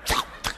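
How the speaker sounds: quick imitated spits; short mock spit sounds; spitting noise. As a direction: mimic spitting back and forth. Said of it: "Spinning back and forth".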